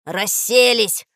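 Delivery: slow, loud drawn-out grumble; grumbling dog. Acted. Dog finds the children sitting, grumbling. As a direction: stretch it out in reproof. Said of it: "проворчал пёс".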